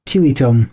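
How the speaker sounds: Tilitum said as TEE-lee-tum; repeated pronunciation. Shown as a demonstration. Host trying the co-host's version of the name, TEE-lee-tum. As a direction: echo Tilitum with long ee vowels. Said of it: "I believe it's Tilitum".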